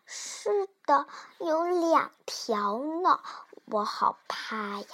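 soft, drawn-out frightened murmur; timid, scared child. Acted. Child admits fear to mother, timid and soft. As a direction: confide fear quietly and slowly.

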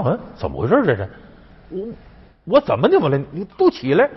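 bewildered, then ordering them up; startled emperor, acted. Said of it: "汉武帝当时吓一跳". (扮受惊的皇帝，越说越高)

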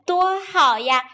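mildly gleeful, with a little chuckle first; pleased chuckle. Acted. Third pig showing off his new house, pleased chuckle. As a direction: show off with a touch of glee. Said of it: "高兴地笑了起来".

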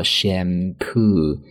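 shampoo said slowly with the weight on "poo"; slow shampoo, second syllable "poo" stressed, first syllable "sham" light. Shown as a demonstration. Teacher showing listeners the stress in shampoo, slow with stress on "poo". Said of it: "两个音节单词重音在第二个音节上".

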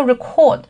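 record with the weight on CORD; stress on second syllable. Shown as a demonstration. Teacher explaining the verb to learners, record stressed at the end. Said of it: "它重音在后面做一个动词".

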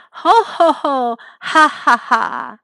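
acted hearty "ho ho, ha ha"; big laugh. A narrator's reading. Walrus amused by the odd busboy, laughing heartily. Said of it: "他又大笑起来".

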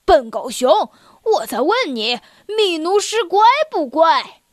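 angry lion bellowing; the lion yelling at the deaf bear; lion roaring. Acted. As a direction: roar the question at the bear. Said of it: "狮子吼道".

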